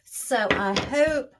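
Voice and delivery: talking while chewing gum; words round a wad of gum. Real, not acted. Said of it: "sorry if I'm chewing gum again".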